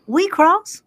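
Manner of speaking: drawling Southern gentleman, rising at the end; lightly voiced Doc Holliday line; acted Doc Holliday. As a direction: play Doc Holliday's lazy charm. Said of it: "just act out the movie".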